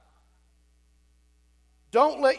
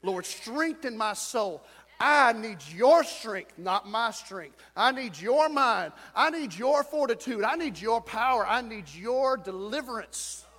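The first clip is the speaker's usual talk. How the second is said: slow, fervent prayer for them to repeat; leading the congregation in a slow, loud prayer; model prayer; 3 dB louder, slower than usual. Shown as a demonstration. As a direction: pray it out slowly, line by line.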